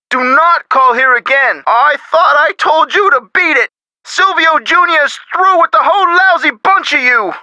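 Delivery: moderately heated brush-off; fed-up, emphatic dismissal; irate. Acted. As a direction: tell off an unwelcome caller. Irate dealer rejects the caller.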